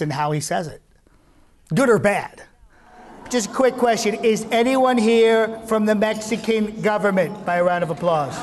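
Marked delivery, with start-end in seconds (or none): 3.3-8.4 higher, fast Trump crowd talk. Acted. Teasing a Mexican American crowd, a higher fast Trump voice. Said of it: "put that unique voice to work".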